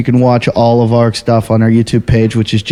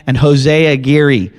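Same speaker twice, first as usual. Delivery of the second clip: put-on Mexican accent; slower than usual. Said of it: "I even said that with, like, a Mexican accent".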